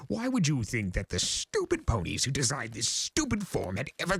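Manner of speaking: high, theatrical chaos spirit boasting of his age; grandiose Discord voice. Acted. Discord boasting to the Pegasus, high and grandiose.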